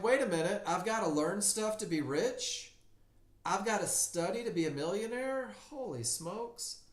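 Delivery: high, astonished disbelief; mock astonishment. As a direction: act floored by the discovery. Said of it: "And you're like".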